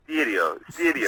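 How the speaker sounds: "Stereo" with a tapped r, "steddio"; posh dad stereo. Retold or imitated. Imitating posh dads saying "Stereo", tapped r. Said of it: "dads often pronounce stereo".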